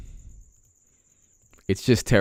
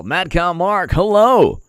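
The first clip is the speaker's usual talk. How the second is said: mock greeting; 6 semitones higher, 5 dB louder, slower than usual.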